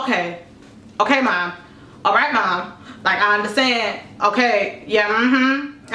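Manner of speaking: low, drowsy mumbling replies; barely awake, brushing mom off; half asleep. Retold or imitated. Sleepy daughter mumbling at mom at dawn. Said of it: "And I'm, like, half asleep".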